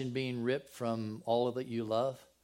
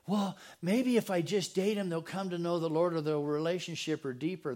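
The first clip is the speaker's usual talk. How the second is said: mock excuse; 5 semitones higher, 3 dB louder than usual. Voicing a dating believer.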